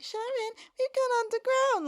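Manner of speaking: high put-on voice, needling the character; mimicking Bucky. Annoyed co-host mimics Bucky calling to Sharon, mocking high voice. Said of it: "you had Bucky being like".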